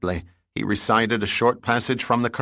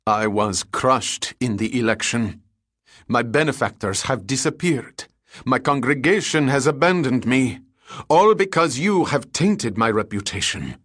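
building anger; 4 semitones higher, 3 dB louder than usual. Acted. Disgraced cleric's rising rage.

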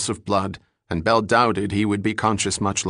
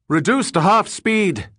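higher, louder crisp command; ordering; 11 semitones higher, 4 dB louder than usual. Acted. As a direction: call the order to the crew. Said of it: "Condon ordered".

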